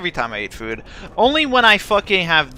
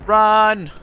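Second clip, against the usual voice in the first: yelling while running away; 5 semitones higher, 5 dB louder than usual. Real, not acted. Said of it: "Run for the hills".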